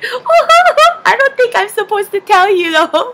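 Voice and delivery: high, loud mock squeal; excited mom impression, coyly bubbling over; imitated giddy mom. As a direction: tease with a secret, voice pitched right up. Mom coyly withholding a secret.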